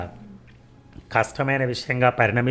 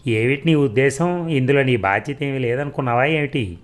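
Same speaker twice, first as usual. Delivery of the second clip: resentful demand; 2 semitones higher than usual. Acted. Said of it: "ఆయన కసిగా ఆపి".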